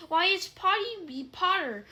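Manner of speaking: loud, high, gleeful cackle; cackling poltergeist. A narrator's reading. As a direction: crow it out like a mischievous ghost. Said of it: "cackled Peeves".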